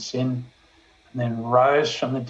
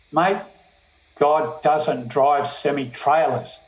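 quick retort; slower than usual. Retold or imitated. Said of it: "I just retorted without thinking".

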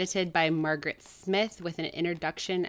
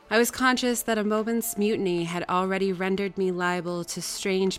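measured audiobook reading; story narration. A narrator's reading. Reader telling Jane's story to listeners, measured narration. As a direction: read it out like a classic novel. Reads the novel aloud.

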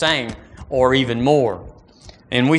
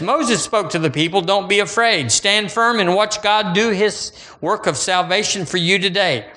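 fervent reading; 7 semitones higher than usual. Acted. Reading scripture with rising fervour.

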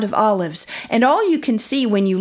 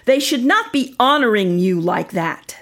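stern teachers. Acted. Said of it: "the teachers say to Jesus".

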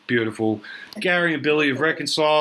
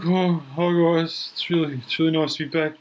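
Billy's voice; 5 semitones higher than usual. Retold or imitated. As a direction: stretch the words like a wistful old mate. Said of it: "He's like".

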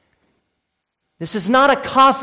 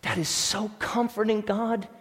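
voicing a believer's prayer. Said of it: "you should hear and say".

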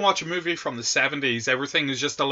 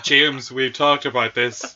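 weary teacher; 3 semitones lower, slower than usual. Retold or imitated. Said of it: "every presentation I give is like".

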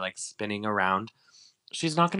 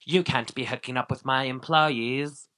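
mildly indignant scolding, raised pitch; mock mad; 4 semitones higher than usual. Host imagining Lisa mad at Max, mock scolding. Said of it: "mad at him".

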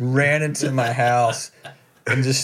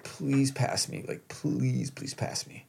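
slow, pleading, fading to a whisper; desperate whispered plea; 2 semitones higher, 8 dB quieter, slower than usual. Retold or imitated. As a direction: beg quietly so nobody hears. Begging wife not to drive by.

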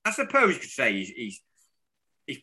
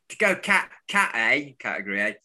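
mock club boss; 3 semitones higher than usual. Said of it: "He wasn't like that at all".

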